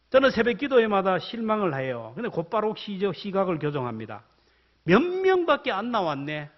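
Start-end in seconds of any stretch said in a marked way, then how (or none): 4.8-6.5 a disappointed sigh at the empty pews; grumbling complaint. Shown as a demonstration. Pastor grumbling at the dawn prayer turnout, disappointed. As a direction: mutter it like a letdown headcount. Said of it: "대본 고칩니다".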